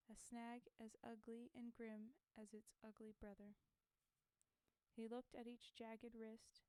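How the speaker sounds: measured, lilting poem recital; poem reading. Acted. Streamer reciting a war poem to chat, measured. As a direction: read it like verse to an audience.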